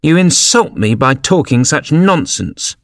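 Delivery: offended. A narrator's reading. Mouse walking away from Alice, offended. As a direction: reproach slowly, in a huff.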